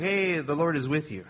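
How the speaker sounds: soft, offhand throwaway hello; casual greeting. Acted. Preacher mimics the angel merely saying hey, casual greeting. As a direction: toss it off like an everyday greeting. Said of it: "just like a greeting".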